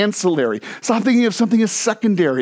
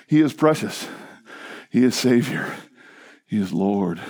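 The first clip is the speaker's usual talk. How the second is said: sinking lower with each phrase; reverent adoration; 9 semitones lower, 3 dB quieter than usual. Real, not acted. Preacher adoring Christ before congregation, hushed reverence. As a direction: let each short phrase settle softer and deeper, with long pauses.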